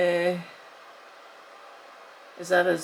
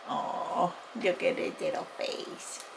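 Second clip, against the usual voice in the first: soft breathy aww over cuteness; overwhelmed by cuteness; 6 dB quieter than usual. Real, not acted. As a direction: whisper it, melting at the tiny face. Unboxing a cute doll.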